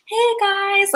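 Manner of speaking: high, chipper sing-song greeting; sing-songy. Retold or imitated. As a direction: imitate a breezy, lilting hello to coworkers. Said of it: "like, sing-songy and very".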